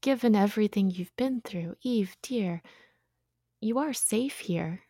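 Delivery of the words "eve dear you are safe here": whispered, slow reassurance; soothing. Acted. Mary comforting frightened Eve in a soft slow whisper. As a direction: hush her fears gently.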